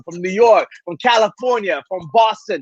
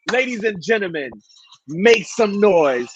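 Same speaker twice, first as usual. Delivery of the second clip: hype announcer. Acted. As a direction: announce the guest like a boxing-ring MC. Hype introduction of guest.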